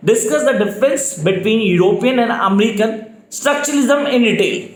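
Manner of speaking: very slow, each word spelled out for note-taking; slow dictation. Shown as a demonstration. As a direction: dictate it slowly so students can write. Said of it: "speed definitely slow है मेरी". (धीमी गति से dictation)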